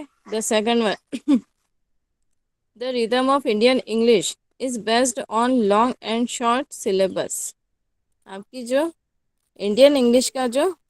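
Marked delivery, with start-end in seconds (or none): 0.0-1.0 slow, carefully spaced heading read out; slow dictation. Acted. Teacher dictating the point heading to students slowly. 2.8-7.5 slow, carefully spaced heading read out; slow dictation. Acted. Teacher dictating the point heading to students slowly.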